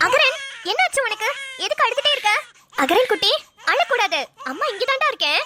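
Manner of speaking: soothing mother. Acted. Mother soothing her crying baby.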